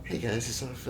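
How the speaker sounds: hushed ASMR intro; barely above a whisper; soft-spoken. Pretend. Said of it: "in a soft-spoken voice".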